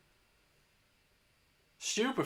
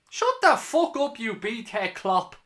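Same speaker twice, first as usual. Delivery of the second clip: higher, louder, slow angry yell; furious yell; 5 semitones higher, 6 dB louder, slower than usual. Real, not acted. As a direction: bellow it at the opposing manager. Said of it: "more fucking fun if I'm a bit worked up".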